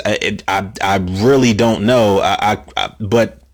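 tripping over the words; stumbling, repeating "I"; stammering. Real, not acted. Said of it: "I'm stammering over my words".

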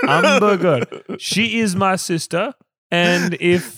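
trying on a French voice for a movie line; mock French accent. Shown as a demonstration. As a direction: ham up a French voice. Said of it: "French character voice".

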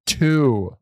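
loud, drawn-out single word; imitated older person. Older person answering a phone menu, loud and over-clear. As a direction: say it emphatically to a machine, mock-earnest. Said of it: "Or he'll be like".

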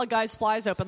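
normal talking voice

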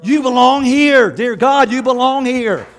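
slow, earnest, loud reassurance; reassuring welcome. Retold or imitated. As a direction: embrace the newcomer with your voice. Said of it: "be there with them and say".

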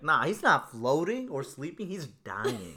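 put-on the doctor mom insisting to the boys that the kid is dying, alarmed; urgent doctor mom. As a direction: announce it like a doctor who just saw the danger. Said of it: "So she's like".

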